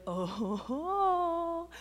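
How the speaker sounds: high, slow, sing-song gloat; gleeful tattletale. Retold or imitated. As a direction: drag it out, delighted someone's in trouble. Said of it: "my response to this might be like".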